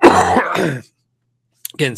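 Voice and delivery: coughing, voice breaking after; coughing fit. Real, not acted. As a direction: cough hard then speak. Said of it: "sorry guys for the coughing".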